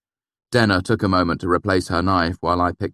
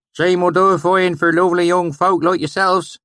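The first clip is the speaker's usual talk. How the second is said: put-on valley accent; 13 semitones higher, 7 dB louder than usual. A narrator's reading. Swineherd greeting the narrator, pleased, thick valley accent.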